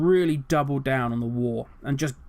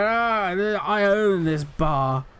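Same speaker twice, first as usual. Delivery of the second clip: put-on drunk bar bully; much slower than usual. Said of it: "this drunk guy in a bar".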